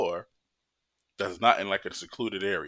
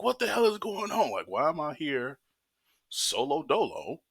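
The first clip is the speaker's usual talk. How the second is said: pissed off; 7 semitones higher than usual. Retold or imitated. To the nurses about no private room, outraged high yell. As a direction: blow up at being stuck on a gurney. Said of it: "I was pissed".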